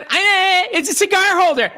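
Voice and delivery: hammed-up unimpressed gift opener; mock dismissive. Husband imagining spoiling his own gift, mock dismissive. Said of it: "Can you imagine if I did that?".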